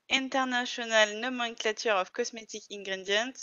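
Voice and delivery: English read with a strong French accent, self-mocking. Shown as a demonstration. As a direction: say it in Frenglish, tongue in cheek. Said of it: "je vais dire avec mon superbe accent". (anglais avec un fort accent français)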